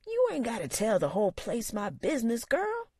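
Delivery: put-on high, indignant old man; grumbling uncle. A narrator's reading. Uncle scolding his niece, indignant. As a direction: protest being embarrassed. Sam voiced.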